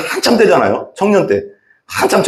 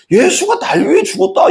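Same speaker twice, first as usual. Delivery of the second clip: exasperated outburst. Shown as a demonstration. Preacher recalling his struggle to believe, exasperated high outburst. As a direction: throw it out in frustration. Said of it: "여기는 안 믿어지는 거야".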